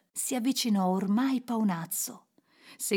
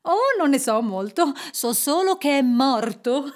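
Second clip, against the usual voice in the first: loud, higher voice ending in a laugh; 5 semitones higher, 5 dB louder than usual. A narrator's reading. Man gossips about a death, laughing. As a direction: break into laughter at the end. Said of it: "disse un uomo ridendo".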